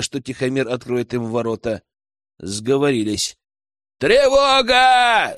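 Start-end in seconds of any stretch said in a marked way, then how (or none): 4.0-5.4 loud, high, drawn-out alarm cry; a long, high bellow; full-throated yell. Acted. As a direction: yell it out slowly to wake the whole village. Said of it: "заорал я во всю глотку".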